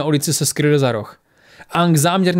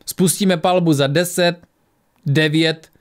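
lightly voiced stern woman, slow countdown; stern female voice; 2 semitones higher, slower than usual. A narrator's reading. Woman outside threatens to open fire, lightly stern. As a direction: count down slowly with mild sternness. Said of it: "ozval se přísný ženský hlas".

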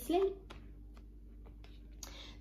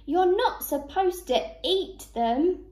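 higher, moderately raised voice; scolding shout; 6 semitones higher, 4 dB louder than usual. A narrator's reading. Duck to seed-eating rabbit, scolding shout. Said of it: "shouted Dora".

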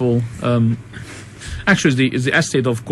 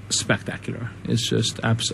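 breathless whisper; 7 dB quieter than usual. Real, not acted. Awed about Scotland.

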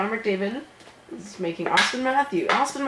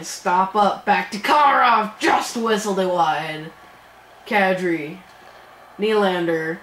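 excited sportscaster calls; play-by-play. Acted. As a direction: call the action like a broadcaster. Hockey play-by-play commentary.

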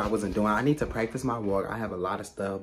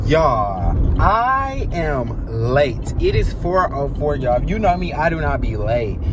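loud, higher, rushed alarm; panicked and late; 5 semitones higher, 10 dB louder, slower than usual. Real, not acted. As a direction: blurt it out, flustered and loud. Running late to the audition.

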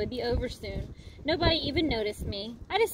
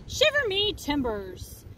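pirate voice; 3 semitones higher, slower than usual. Acted. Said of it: "the pirate said".

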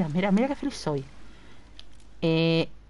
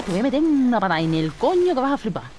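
1 angry threat; 4 semitones higher, 4 dB louder than usual. Real, not acted. Threatening the game monster.

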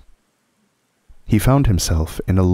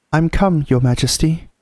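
high, eager announcement; eager boy; 9 semitones higher than usual. A narrator's reading. Edmund greeting the Witch, eagerly. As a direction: pitch it up as an eager arriving boy. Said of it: "rushing eagerly forward".

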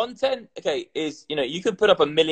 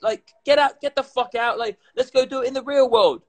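mock fatherly scolding; 8 semitones higher than usual. Acting himself scolding his son.

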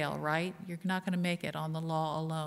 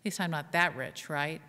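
mock nervous worry. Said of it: "And we all go".

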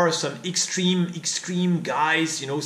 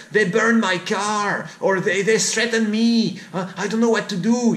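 raised, slightly louder retelling; French teacher recalling his fear, a touch higher; quoted teacher; 5 semitones higher, 3 dB louder than usual. Retold or imitated. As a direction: tell his story as the scared teacher. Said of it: "he told me".

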